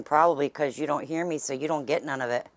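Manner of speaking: loud teasing holler; calling out. Real, not acted. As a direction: project it at someone off camera. Teasing Rox from a distance.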